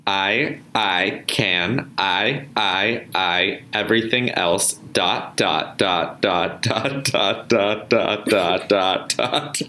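lightly robotic voice. Acted. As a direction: read it like a gentle robot. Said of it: "Do, like, a light robot voice".

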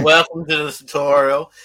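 hammed-up Australian tutorial voice; mock Australian accent. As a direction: play it like an Aussie game narrator. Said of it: "an Australian voice setting where they have the accent".

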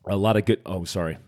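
sputtering mid-sentence on a drink; choking on a drink. Real, not acted. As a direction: talk while choking on a gulp. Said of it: "I am choking on Kill Cliff right now".

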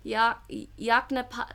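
Yaknapa- broken into halting syllables; sounding out words. Real, not acted. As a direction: stumble through Ya-, Yaknapa- slowly. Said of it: "all right, okay".

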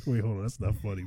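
amused, catching breath; laughing. Real, not acted. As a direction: talk through a fit of giggles. Cracking up at the accent.

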